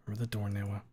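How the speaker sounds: hushed urgent whisper. Acted. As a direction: whisper a warning. Whispered Leon reminder.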